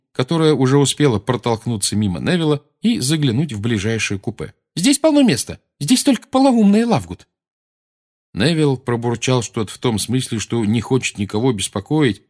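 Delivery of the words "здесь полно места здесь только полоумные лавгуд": put-on lively girl. Ginny voiced, high.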